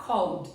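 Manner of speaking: "Called" in one syllable ending in D; D sound. Shown as a demonstration. Teacher confirming for learners, "Called" with a D sound. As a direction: close "Called" directly on a D, no E. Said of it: "ele tem o som de D".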